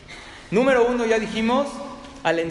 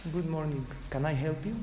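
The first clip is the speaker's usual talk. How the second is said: soft, gentle receptionist welcome; smiling greeting; 5 dB quieter than usual. Retold or imitated. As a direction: greet the guests kindly with a smile. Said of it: "Con la mejor sonrisa".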